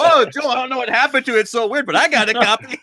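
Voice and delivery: high, playful fake innocence; mock innocence. Pretends he has no idea where the stolen copy went, mock innocent. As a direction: play dumb, sing-song and giggling.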